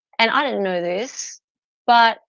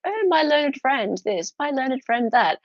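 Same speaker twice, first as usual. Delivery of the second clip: a light posh barrister voice, a bit higher; lightly mock the posh lawyers; 5 semitones higher than usual. Mocking barristers in silks, a light posh voice. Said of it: "all posh".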